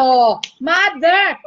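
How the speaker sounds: slow, hammed-up crying shout; a stretched, playful fake sob on the word; mock wail. Host fake-sobbing at a song for mothers, drawn out.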